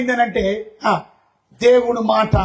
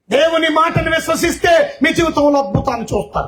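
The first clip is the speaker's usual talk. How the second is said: preaching shout; 5 semitones higher than usual. Real, not acted. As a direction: proclaim it to the back row. Preacher shouts promise to congregation.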